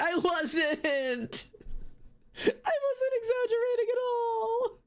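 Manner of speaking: very high, tearful-sounding whine; wailing protest. Real, not acted. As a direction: protest in an escalating melodramatic wail.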